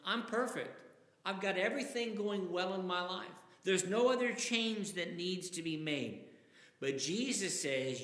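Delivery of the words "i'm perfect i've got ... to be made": lightly voiced smug rich man; pompous boast. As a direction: voice the rich man's self-satisfaction. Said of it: "I think of that as the man saying".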